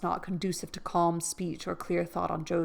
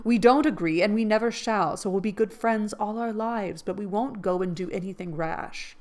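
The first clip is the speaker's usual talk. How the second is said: higher, louder, final; firm refusal; 3 semitones higher, 6 dB louder than usual. Acted. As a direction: shut it down kindly but firmly.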